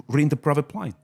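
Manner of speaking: laughing New Zealand accent. Shown as a demonstration. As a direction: Kiwi phrase through a laugh. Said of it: "some of the phrases I can do, like, in New Zealand".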